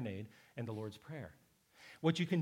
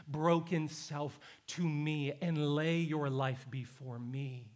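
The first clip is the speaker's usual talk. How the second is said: building preached invitation; slower than usual. Acted. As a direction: let each "bring" roll on, slowly gathering strength. Voices Jesus's invitation, building litany.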